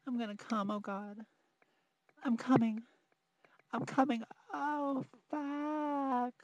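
building to a loud climax cry; from urgent to a loud, high outcry. Acted. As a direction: let it break into a crying climax.

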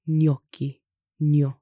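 "gnocchi" begun as nyo, then "gno" alone; NY sound. Shown as a demonstration. Teacher demonstrates the GN cluster, NY sound. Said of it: "pronounced as the English N Y".

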